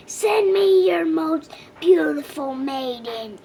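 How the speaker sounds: roaring dragon. A narrator's reading. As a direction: bellow the demand from the cave. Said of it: "he roared".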